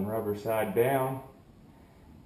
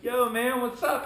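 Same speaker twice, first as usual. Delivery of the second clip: higher-pitched buddy hello; retold upbeat greeting; 9 semitones higher, 3 dB louder than usual. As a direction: toss out an upbeat hey to a pal.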